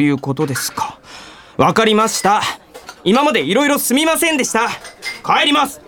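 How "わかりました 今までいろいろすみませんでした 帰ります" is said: rising higher with each short, offended sentence; indignant formal apology before walking out; offended, curt goodbye. Acted. Young man to his interviewer after a quarrel, offended. 水野 snaps and storms off.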